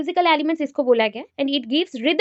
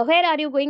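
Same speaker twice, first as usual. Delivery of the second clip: WHERE picked out as the key word; stress on WHERE; much slower than usual. Shown as a demonstration. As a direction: put the weight on "where". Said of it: "where जो word आया तो इस पे ज़्यादा focus है".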